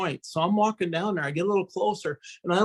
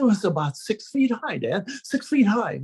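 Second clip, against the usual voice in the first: put-on excited kid; 5 semitones higher than usual. Frightened kid reporting ghost.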